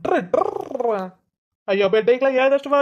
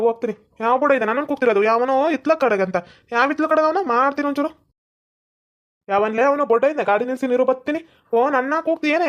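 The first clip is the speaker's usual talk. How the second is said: mock threatening; 3 semitones higher than usual. The angry man searches for whoever taunted him, riled up. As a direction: challenge the hidden caller to show himself.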